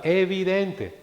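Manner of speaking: evidente lifted high and drawn out, each syllable weighted; stress on evidente. Shown as a demonstration. Preacher underlining one word for the congregation, stressed. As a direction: lean hard on evidente so it rings out. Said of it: "Quiero que destaquen esa palabra".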